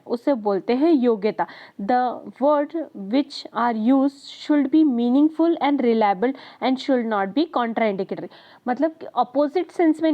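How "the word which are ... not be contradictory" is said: reading a definition aloud very slowly; slow dictation. Acted. Teacher dictating a definition to the class, very slowly. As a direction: spell it out slowly for students to note down.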